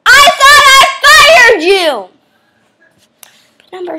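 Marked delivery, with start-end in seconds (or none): 0.1-2.1 mock stern scolding. Host scolds again.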